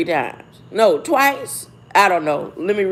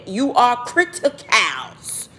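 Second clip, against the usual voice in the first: mock forceful quote; 2 semitones higher, slower than usual. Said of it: "she said it with force".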